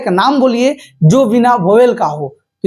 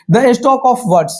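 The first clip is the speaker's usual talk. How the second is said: slow dictation; much slower than usual. Shown as a demonstration. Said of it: "teacher dictates definition".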